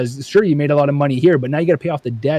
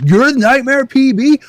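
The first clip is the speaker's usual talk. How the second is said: starstruck fan; 10 semitones higher, 4 dB louder than usual. Retold or imitated. A grown fan recognising the YouTuber from childhood, high and awestruck.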